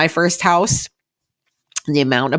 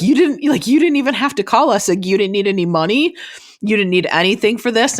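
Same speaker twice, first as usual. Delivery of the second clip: much higher, amazed, full of pride; proud parents; 4 semitones higher than usual. Retold or imitated. Parents amazed their daughter bought a house alone, high and proud. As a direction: gush like stunned proud parents. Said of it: "they're like".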